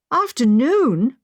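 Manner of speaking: taken aback, dragging the word out; surprised exclamation. A narrator's reading. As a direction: catch the word in dismay. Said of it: "I exclaimed".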